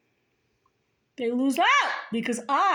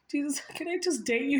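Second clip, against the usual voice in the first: cheeky question; 3 semitones higher, 4 dB quieter, faster than usual. Pretend. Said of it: "I'm like".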